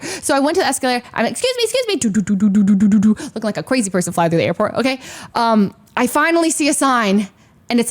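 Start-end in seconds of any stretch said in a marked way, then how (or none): 1.3-1.9 very high mock-frantic squeak; frantic apology. Traveler rushing to the escalator, high and frantic. 1.9-3.1 mimed scurrying. Retold or imitated. Imitates scurrying through the airport.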